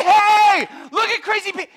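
jeering. Retold or imitated. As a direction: taunt him. Crews heckling.

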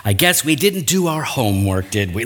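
lightly mocking, condescending lilt; a touch of sing-song condescension; sing-songy know-it-all. Shown as a demonstration. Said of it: "using that sing-songy know-it-all voice".

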